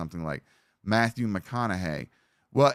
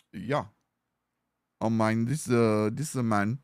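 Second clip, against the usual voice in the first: attempted Cajun slipping into Jamaican; badly faked Southern accent that turns Jamaican; accidental Jamaican accent. Shown as a demonstration. Streamer trying a Cajun mix, sliding into a Jamaican accent. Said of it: "I'm doing the Jamaican thing again".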